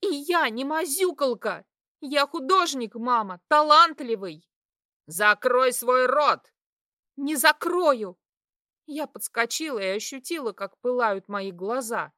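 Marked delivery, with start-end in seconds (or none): 0.0-4.5 high, loud breaking-point shout; shouting defiance. A narrator's reading. Daughter shouting at mother that she is an artist. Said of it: "Мои нервы сдали". 5.1-6.5 slow, loud barked order; furious command. Acted. Mother shouting at her daughter to shut up. 7.2-8.2 high, slow, loud refusal; defiant shout. Acted. Daughter refusing her mother with a defiant shout.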